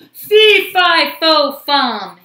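very loud, high chant stepping down; giant's cry. A narrator's reading. Giant wakes as Jack grabs the harp, crying out. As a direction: bellow each word like an alarmed giant. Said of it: "he cried".

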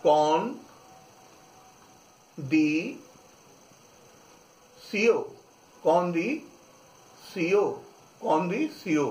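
कौन दी सीओ said syllable by syllable, then joined; French "condition" sounded कौन दी सीओ; French pronunciation. Shown as a demonstration. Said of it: "कंडीशन को पढ़ेंगे अपन".

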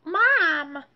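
calling out. Acted. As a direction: call out to interrupt. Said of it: "Buster began".

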